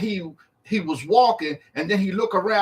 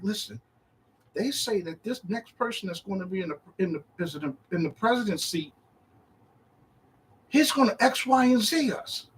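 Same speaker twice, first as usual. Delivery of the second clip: soft, lowered volume; confiding; 5 dB quieter than usual. Acted. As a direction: confide a worry quietly, as if to the master. Acts own worried talk to Yahshua.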